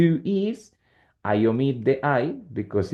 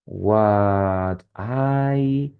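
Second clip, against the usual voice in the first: drawn-out, slow words; dictating. Shown as a demonstration. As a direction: stretch each word while composing an example. Teacher starts writing an example.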